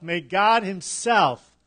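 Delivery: slow, with extra weight on "himself"; stress on himself. Shown as a demonstration. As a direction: draw out the phrase and lean on "himself". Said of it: "The emphasis is on himself".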